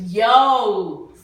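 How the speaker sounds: loud, hyped-up yo; loud fan excitement; excited outburst. Real, not acted. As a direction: exclaim it with real enthusiasm. Excited about new music mention.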